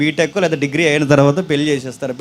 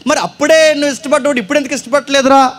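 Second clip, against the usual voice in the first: teasing high question; 8 semitones higher than usual. Acted. Mock question to old friend.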